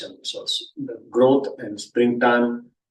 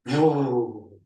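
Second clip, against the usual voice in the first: breathy whoo sound. Shown as a demonstration. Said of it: "the sound for that is Ru".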